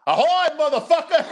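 high, loud mock pirate shout cracking into a laugh; pirate call. Retelling the movie's punchline to his co-host, laughing pirate shout. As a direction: bellow it like a joking pirate, laughing. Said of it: "he's like".

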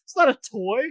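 high, fast disbelieving outburst; incredulous. Retold or imitated. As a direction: react as if it's absurd. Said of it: "and I'm like".

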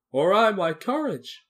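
loud, high, slow question; dismayed, drawn-out plea; lamenting Lion. Acted. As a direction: cry out in dismay, stretching the words. Lion laments his lost courage.

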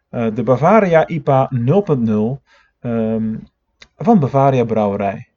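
a half-hearted imitation of a laid-back podcaster; Jensen impression. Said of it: "totaal mislukte Jens-imitatie".

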